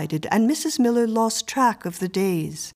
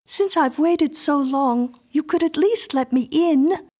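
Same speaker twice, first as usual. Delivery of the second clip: put-on high, insistent little girl voice; a strange child demanding entry; eerie little girl; 8 semitones higher than usual. A narrator's reading.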